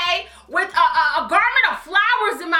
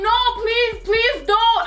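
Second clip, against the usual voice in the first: high-pitched retold begging; tearful pleading; 5 semitones higher, slower than usual. Begging cousin not to turn back, retold tearful plea. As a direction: plead in mock tears. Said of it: "I'm crying at this, like, literally little tears".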